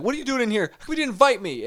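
high-pitched imitation of a put-out wife; mock-mad wife. Wife left out of the fun, high mock-indignant voice. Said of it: "she'd be mad is she'd be like".

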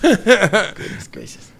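long, slow and drawn out. Real, not acted. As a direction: stretch each word out slowly. Repeats phrase, drawn out.

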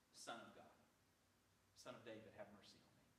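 low, soft, understated plea; merely said. Acted. Preacher showing Bartimaeus did not just say it, low and quiet. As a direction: say it quietly, without crying out. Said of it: "does not say that Bartimaeus said".

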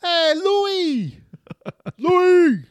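very high, loud Italian-American holler; exaggerated Italian-American impression; New York Italian man. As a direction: yell down the street in hammed-up New York Italian. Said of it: "talks like a fifty-five-year-old Italian man".

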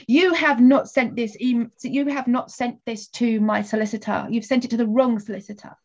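stern, deliberate, each word pressed; firm complaint. Retold or imitated. Emailing the agent about the wrong solicitor, firm and deliberate. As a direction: correct a careless agent firmly. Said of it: "I just emailed saying".

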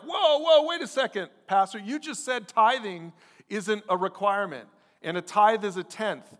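high, loud "hold on" interruption; mock alarmed objection. Acted objection from the congregation.

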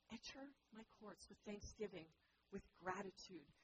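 repeated softly, enter weighted. Shown as a demonstration. God repeats the invitation, soft and tender. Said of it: "He says".

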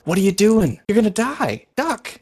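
put-on high, loud frantic girl's cry; a scared kid yanking someone to safety; panicked street girl. Girl pulls her to cover.

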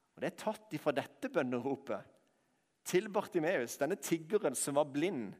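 ordinary talk

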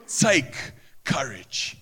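slow, leaning on "Take courage"; stress on Take. Shown as a demonstration. Preacher contrasting feel with take, slow stress. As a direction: draw out "Take courage" as a command. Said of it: "courage is an action".

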